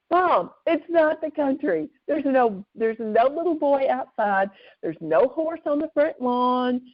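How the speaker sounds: slow, high-pitched, emphatic denial; retold firm correction. Daughter to hallucinating mother, retold firm correction. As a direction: spell it out to a confused parent.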